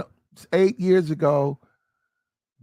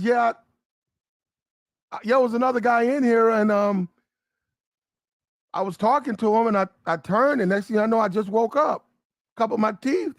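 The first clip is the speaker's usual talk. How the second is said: higher, rushed confused recounting; dazed victim voice; 4 semitones higher, faster than usual. Retold or imitated. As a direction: stammer it out like you're groggy.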